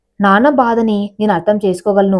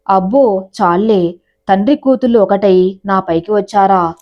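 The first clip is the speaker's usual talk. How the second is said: mock jealous pout. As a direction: drag out a playful huff, pouting. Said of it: "మూతి తిప్పుకుంటూ వెళ్ళింది".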